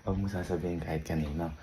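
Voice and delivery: soft secretive hush; whispering while hiding. Real, not acted. Secret gift, others nearby.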